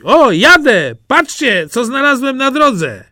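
high, bursting with glee; excited Jaś. Acted. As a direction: show off a treasure like a proud child. Jaś shows off his find.

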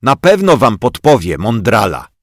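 angry boy mocking the puppet; sarcastic fuming. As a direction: sneer at the know-it-all. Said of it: "pieklił się".

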